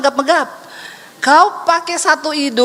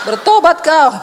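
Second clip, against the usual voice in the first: voice of the Holy Spirit; 5 dB louder than usual. Retold or imitated. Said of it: "kata Roh Kudus gini".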